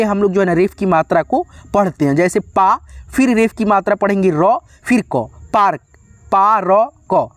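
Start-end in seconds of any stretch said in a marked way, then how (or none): 6.3-7.3 पा र क split into three separate sounds, with र kept short as half a र; sounded out. Shown as a demonstration. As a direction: break पार्क into पा, र, क. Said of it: "आधा र बोलते हैं". (अक्षर अलग-अलग बोलकर पा र क)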